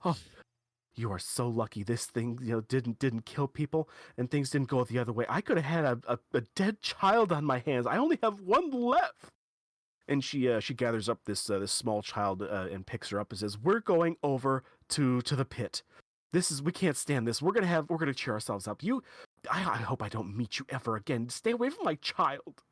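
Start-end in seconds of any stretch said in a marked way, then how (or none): 0.0-9.3 sharply exhaling mother. Acted. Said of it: "exhales very sharply and says". 13.6-22.6 mildly huffy mom, ending on a higher-pitched warning; indignant mother. Acted. Acted angry mother storms off.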